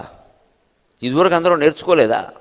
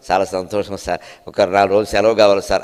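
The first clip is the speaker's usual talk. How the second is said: humble employee; 7 semitones lower than usual. Retold or imitated. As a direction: ask sweetly for leave while he's pleased. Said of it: "అని చెప్పాలి".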